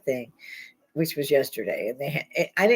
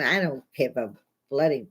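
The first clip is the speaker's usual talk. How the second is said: swearing through a laugh; 2 semitones lower than usual. Real, not acted. Urging viewers to comment, laughing through a swear. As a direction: laugh while you say it.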